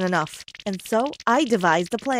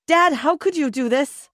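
higher-pitched accusing outburst; indignant, raised-voice question; angry yell; 6 semitones higher, 4 dB louder than usual. A narrator's reading. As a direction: yell at your father in dismay. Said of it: "we yelled".

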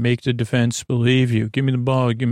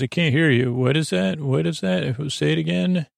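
lightly teasing, higher-pitched retelling; playful taunting; 4 semitones higher than usual. Retold or imitated. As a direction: act out a mock "can't hear you". Keely teasingly pretends not to hear Roy.

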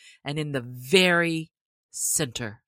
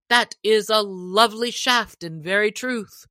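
sheriff; 4 semitones higher, 5 dB louder than usual. Acted. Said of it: "cried the sheriff".

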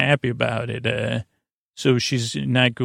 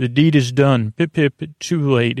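mock English accent, a little raised; 3 dB louder than usual. Recapping her parting line to the group, mock English accent. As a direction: put on a jolly English accent. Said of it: "in this English accent".

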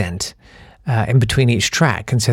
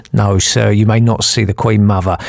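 lightly voiced officious policeman; imitated policeman; 3 semitones lower, 3 dB louder than usual. Policeman interrupts the brother's pleading, lightly voiced official refusal. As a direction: cut in firmly as a mock bobby. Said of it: "And the policeman said".

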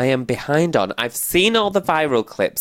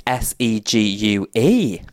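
slow spelling; slower than usual. Shown as a demonstration. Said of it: "segue is spelt like".

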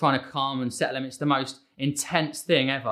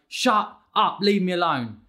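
acted-out impatient outburst, only a little louder; snappy outburst; 3 semitones higher, 3 dB louder, slower than usual. Impatient parent's default reaction to a child, mock snappy outburst.

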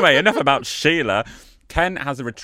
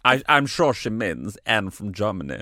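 put-on German accent, a little lower; 4 semitones lower than usual. Explaining the sender's name, put-on German accent. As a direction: keep up the mock German accent. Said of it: "this was my best German accent".

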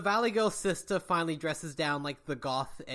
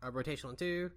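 Lockpick Lawyer impression; 3 semitones lower than usual. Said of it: "Lockpick Lawyer can fix this one".

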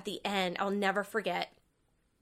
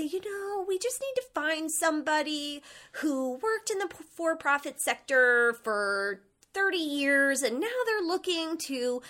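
imitating boss; 4 semitones higher than usual. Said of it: "I used to have this boss".

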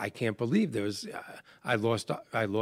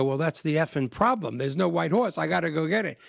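higher, exasperated insistence; mock frantic dad throwing F-bombs; retold frantic anger; 6 semitones higher than usual. Frantic dad who lost the horse, mock exasperated. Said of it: "I get so aggravated".

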